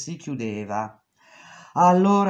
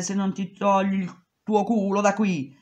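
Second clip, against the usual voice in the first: angry boss; 5 semitones higher than usual. Retold or imitated. Boss shouts back.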